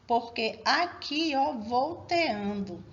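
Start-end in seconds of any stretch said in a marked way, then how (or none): 1.5-2.8 "volteando" slowly, with e and a apart; separated vowels. Shown as a demonstration. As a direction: split the vowels in "volteando" into two syllables. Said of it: "eu tenho que separá-las".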